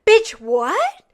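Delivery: loud, high, rising disbelief; incredulous. Real, not acted. Host reacting to mom's defense of him, loud incredulity. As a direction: throw it back in total disbelief.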